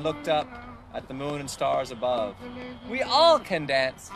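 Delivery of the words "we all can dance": gentle and wise. A narrator's reading. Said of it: "he said".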